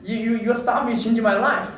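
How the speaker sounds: high, loud, frustrated shouting; angry outburst. Retold or imitated. Snapping at the man who called him crazy, angry and loud. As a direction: yell it at the man who stopped you. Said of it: "I was really frustrated".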